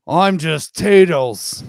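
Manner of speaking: dignified. Pretend. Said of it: "spoke with dignity".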